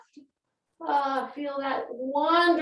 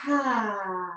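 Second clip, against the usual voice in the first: dramatic sigh. Shown as a demonstration. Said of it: "big sigh".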